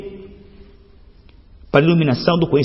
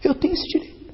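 breathy whisper of conviction; soft unvoiced declaration; 11 semitones higher, 6 dB quieter than usual. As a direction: whisper it like a secret. Whispered claim after sermon point.

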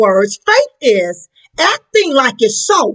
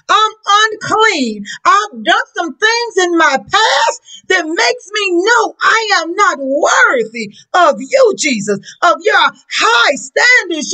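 pleading centurion. Acted. Centurion pleading his unworthiness to Jesus.

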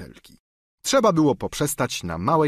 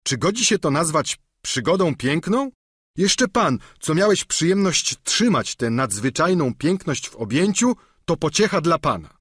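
raised, higher voice of a complaining squire; Sancho; 6 semitones higher than usual. Acted. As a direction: grumble like a battered servant. (wyżej, narzekający giermek)

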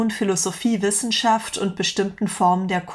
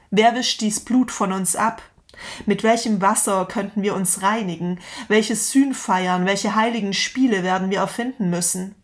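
dramatic reading. Acted. Reads Nietzsche's parable aloud.

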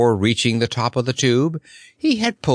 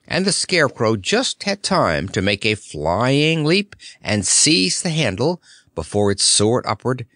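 usual speaking voice

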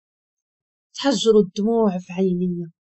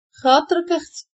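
higher, mocking put-on voice; mocking sister; 6 semitones higher than usual. A narrator's reading. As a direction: sneer it out, raised and taunting. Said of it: "ضحكات باستهزاء وقالت". (بنبرة ساخرة ومستهزئة بصوت مرتفع)

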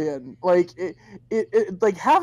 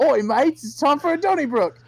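put-on a quick jokey Australian accent; lightly put-on Australian accent; mock Australian accent; 5 semitones higher than usual. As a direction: ham up an Aussie king a little. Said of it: "that fucking accent".

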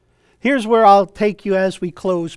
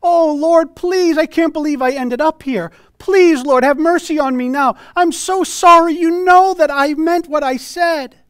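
high, louder voiced plea of a damned soul; weeping plea; 7 semitones higher, 5 dB louder than usual. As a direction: beg for mercy, half acted. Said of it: "people that are weeping".

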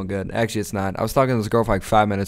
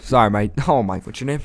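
bad Irish accent. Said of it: "your Irish accent is shit".

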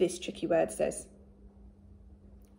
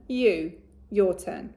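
you said slowly and loudly; slow modelled word; 3 dB louder, slower than usual. Shown as a demonstration. Teacher models you for the children, slow and loud. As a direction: hold you out slowly for copying. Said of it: "My turn".

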